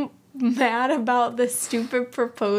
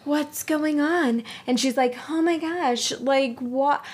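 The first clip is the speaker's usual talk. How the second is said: confused; 5 semitones higher than usual. Retold or imitated. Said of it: "So confused".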